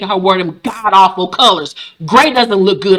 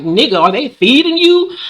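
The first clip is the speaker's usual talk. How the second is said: higher, incredulous question; mock concern; 6 semitones higher than usual. Viewer to thin Fred, higher incredulous voice. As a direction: ask it like you can't believe it. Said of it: "I'm like".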